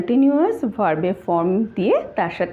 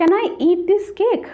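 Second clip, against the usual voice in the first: very slow, higher, word-by-word read-out; slow dictation; 7 semitones higher, much slower than usual. Shown as a demonstration. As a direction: dictate each word slowly for the class. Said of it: "first exercise sentence".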